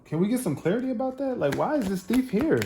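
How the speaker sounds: high-pitched, incredulous questioning; indignant. Real, not acted. Tarot reader confronting the thief card, indignant. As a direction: demand answers, voice jumping up high.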